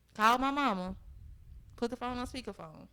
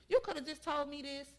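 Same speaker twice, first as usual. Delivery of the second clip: raised, heated voice at her man; half-yelled complaint, louder at the end; retold yelling; 6 dB louder than usual. To the boyfriend who called her mama, a retold yell. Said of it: "I'm screaming and yelling".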